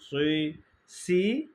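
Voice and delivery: সি with a thick সদ s, mouth neutral; heavy s sound. Shown as a demonstration. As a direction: say সি full and heavy like সদ. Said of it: "আর সদের বেলা হবে সি".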